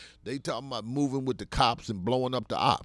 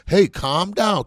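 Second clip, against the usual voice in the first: much higher and louder mock mother; mother hushing; 7 semitones higher, 9 dB louder, slower than usual. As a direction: play the mother scolding Billy, raised up. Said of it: "Just like your mother told you".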